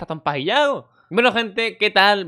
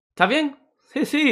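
high mock concerned voices; concerned crowd; 11 semitones higher, slower than usual. Crowd checking on fainted lifeguard, high mock concern. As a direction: voice the worried onlookers.

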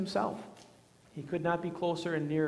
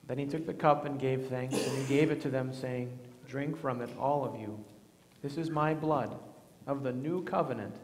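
solemn liturgy. Acted. Recites the words of institution.

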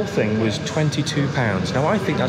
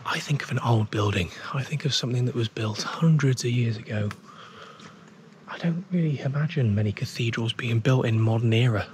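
quietly, softer, almost whispering; hushed voice; 4 semitones lower, 5 dB quieter than usual. Real, not acted. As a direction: keep it down out of respect in a cathedral. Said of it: "I'm gonna whisper a little bit just out of respect for others".

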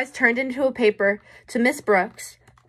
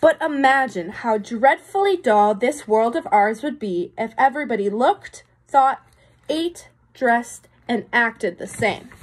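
put-on reading to children. A narrator's reading. Teacher reads picture book aloud.

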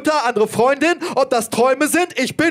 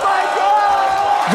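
mock shocked girl; 6 semitones higher than usual.

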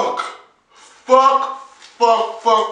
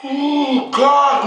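ordinary delivery

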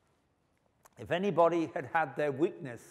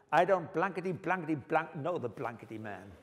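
mock cursing; 3 semitones higher than usual. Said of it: "In other words".

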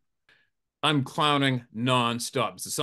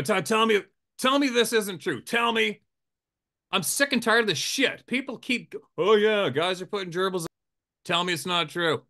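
pleading mock outrage; 7 semitones higher than usual. The guide begging the surgeon to deny it, high and pleading. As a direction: beg him to deny it. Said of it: "I go".

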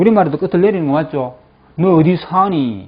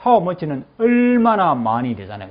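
ordinary talk, nothing marked

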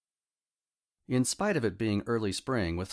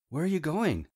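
calling out; 8 semitones higher, 4 dB louder than usual. A narrator's reading. Calling after departing friend.

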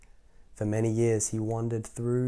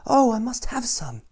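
much higher pleading wife; wife's high voice; 12 semitones higher, 5 dB louder than usual. Acted. Wife begging her husband for radishes, high voice. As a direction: squeak it out with longing. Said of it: "she said to her husband".

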